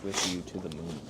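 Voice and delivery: reading the blurb like an ad. Acted. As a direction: sell it like a commercial. Reads the package blurb aloud.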